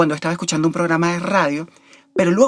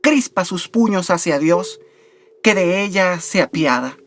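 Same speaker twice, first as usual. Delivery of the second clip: measured poem reading with deliberate pauses; poetry recitation. Acted. Host reciting Baudelaire's Bendición to listeners, measured poetry recitation. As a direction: recite it solemnly, drawing out the line endings. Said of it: "recitarles o referirles unas líneas del poema".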